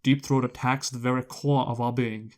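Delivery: slow Southern courtroom drawl; honeyed southern lawyer drawl. Retold or imitated. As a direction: ham up a Southern lawyer, slowly. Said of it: "he had this Southern lawyer saying".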